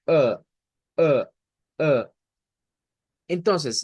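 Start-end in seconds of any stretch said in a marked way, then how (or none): 0.1-2.1 "a" as uh, tongue pulled to the middle; retracted central A. Shown as a demonstration. Teacher telling learners to retract the tongue, central A. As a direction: repeat "a" as a short central uh, falling. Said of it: "la va a retractar un poco".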